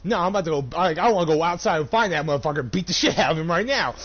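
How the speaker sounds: loud, heated venting; worked-up outburst. Retold or imitated. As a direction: retell it loud and livid, a mock rampage. Acting out his livid outburst to customer.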